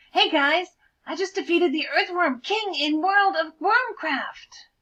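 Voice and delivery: high, breathless whisper of excitement; eager nerdy bird. Acted. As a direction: gush about the win, half whispered. Nerdy bird brags about game.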